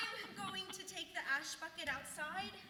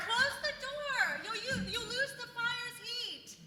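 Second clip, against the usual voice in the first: calling out; 4 semitones higher, 8 dB louder than usual. Real, not acted. Calling over the wind.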